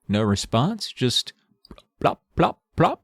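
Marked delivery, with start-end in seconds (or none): 2.0-3.0 dripping sound imitation. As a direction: mimic drops falling in a cave. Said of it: "the sound of dripping water".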